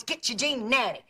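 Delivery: Jean Natty, hard English a; mispronounced perfume name. Retold or imitated. Aunt mocks radio announcers' mispronunciation, Jean Natty. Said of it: "it's never Jean Naté".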